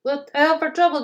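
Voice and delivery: warning. Acted. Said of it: "James warned the driver".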